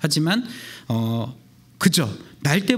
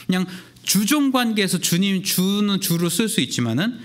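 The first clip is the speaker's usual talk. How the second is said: usual speaking voice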